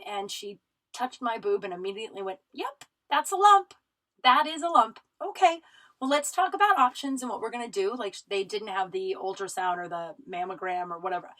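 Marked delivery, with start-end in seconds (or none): 2.5-7.9 high, loud, brisk-spirited imitation of a clinician; no doom and gloom. Clinician confirming a lump to patient, no doom and gloom. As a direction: announce it loudly and lightly, with no gloom. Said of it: "doom and gloom".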